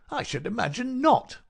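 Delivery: high, loud, mocking visitor's voice; scornful amusement. A narrator's reading. Visitor answers the sick man's hope, mockingly amused. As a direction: scoff at him with relish. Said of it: "The other laughed".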